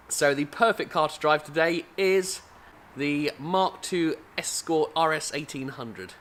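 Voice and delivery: a hammed-up, slow posh English announcer read; lightly put-on English accent, deliberately slow; terrible English accent. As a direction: put on a bad English accent and draw out "the Mark two Escort R S eighteen hundred". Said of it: "I'll do it in my terrible English accent".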